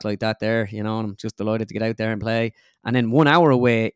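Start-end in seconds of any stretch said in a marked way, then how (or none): 0.0-2.5 flat County Offaly-style Irish accent; understated, level Irish golfer impression; Shane Lowry. Shown as a demonstration. Comedian imitates a golfer for host, flat Irish accent. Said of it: "it's kinda really flat".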